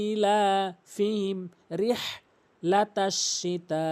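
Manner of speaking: slow ইলাফিহিম, then শিতা with a long held আ; elongated recitation. Shown as a demonstration. Teacher shows four alif of length, drawn-out শিতা. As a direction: stretch the final আ of শিতা four beats. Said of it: "চার আলিফ টেনে উচ্চারণ করতে".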